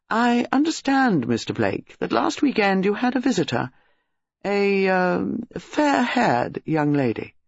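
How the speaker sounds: slow, hesitant official questioning; formal police colonel. Acted. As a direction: broach a delicate matter stiffly and carefully.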